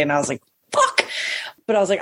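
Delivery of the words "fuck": high strained cry; whiny yelp. Retold or imitated.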